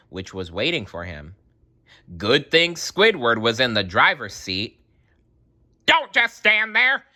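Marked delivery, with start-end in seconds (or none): 5.9-7.1 higher, louder call. A narrator's reading. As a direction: urge them in. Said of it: "he called to Sandy and Patrick".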